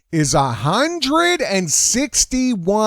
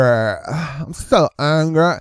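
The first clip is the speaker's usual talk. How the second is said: slow, drawn-out mock whine; mock angry activist; much slower than usual. Commentator mocks an activist, slow drawn-out whine. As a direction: stretch it like a sulky protester.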